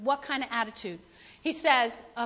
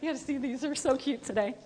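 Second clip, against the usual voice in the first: delighted gush; 7 dB louder than usual. Retold or imitated. Answering the shoe compliment with giddy delight. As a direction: show off the shoes with a giddy squeal. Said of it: "And I go".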